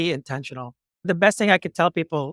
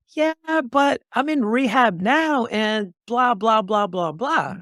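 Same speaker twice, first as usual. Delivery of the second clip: higher, drawn-out mock protest; mock excuse-making; 5 semitones higher, slower than usual. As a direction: imitate a kid dragging out his excuses. Retelling kid's string of excuses.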